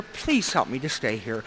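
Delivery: soft, low, slow plea; hushed prayer. Retold or imitated. Recovering drinker praying to God, soft and slow. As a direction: pray it under your breath, slowly.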